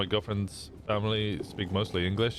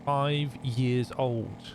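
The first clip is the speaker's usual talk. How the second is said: put-on little kid voice; 3 semitones higher, slower than usual. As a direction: play a five-year-old saying hello, slowly. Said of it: "you'd hear them being like".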